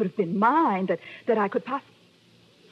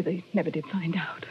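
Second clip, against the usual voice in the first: whispered sorrow; hushed grief; 4 semitones lower, 5 dB quieter than usual. Acted. Widow telling of her husband's death, whispered grief. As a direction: let it fall to a whisper.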